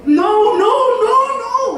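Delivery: put-on a squeamish mother pushing the dirty child away; fussy mom refusing. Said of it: "엄마가". (더러운 아이를 밀어내는 엄마, 높고 까다로운 목소리)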